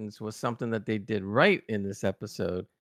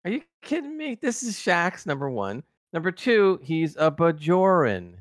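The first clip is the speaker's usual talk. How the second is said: incredulous; 4 semitones higher, 3 dB louder than usual. Retold or imitated. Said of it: "and I'm going like".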